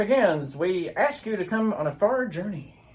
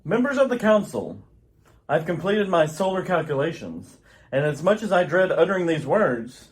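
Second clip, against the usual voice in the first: lower, grave announcement; grave scientist; 5 semitones lower than usual. Acted. Jor-El warning the council of doom, lower and grave. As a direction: deliver doom solemnly.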